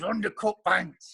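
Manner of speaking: put-on drawn out like a knowing old angler; Baz's impression. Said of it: "he speaks like this".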